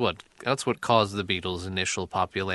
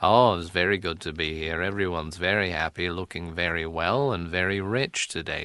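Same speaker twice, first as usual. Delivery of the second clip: Impression of a singer; 4 semitones lower than usual. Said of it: "It's a singer walking into the studio".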